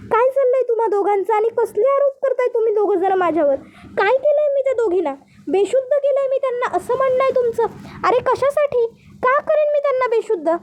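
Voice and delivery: indignant protest. Acted. Accused woman denies drugging the two brides, indignant.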